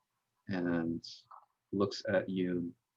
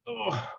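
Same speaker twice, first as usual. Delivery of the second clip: high drawn-out "oh" of effort; acted groan; 12 semitones higher than usual. Exhausted Dunger getting up, acted high groan. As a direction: groan the word out. Exhausted character hauls himself up.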